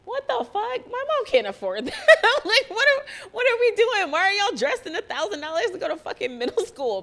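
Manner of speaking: high, loud, laughing disbelief; mock outrage through laughter; incredulous outburst. Recalling classmates' pricey clothes, laughing in high, loud disbelief. Retelling her shock, laughing.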